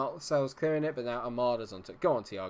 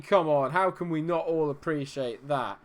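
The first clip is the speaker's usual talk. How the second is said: normal talking voice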